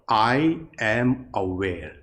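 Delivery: slow, calm inner phrase; silent thought. Shown as a demonstration. Meditation teacher voicing the silent thought for students, slow and calm. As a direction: voice the thought slowly and gently. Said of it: "with the silent thought".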